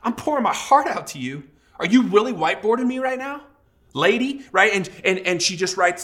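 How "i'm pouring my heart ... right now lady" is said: higher, indignant retort; huffy pitch up, playing the offended husband; mock exasperation. Husband huffing at the counselor over whiteboarding. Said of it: "I'm starting to get a little bit mad".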